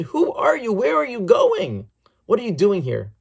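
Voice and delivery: furious soldier. Acted. Soldier confronting the wandering Rebbe, furious and demanding. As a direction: bark the questions at the trespasser. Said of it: "the soldier ran over furiously and said".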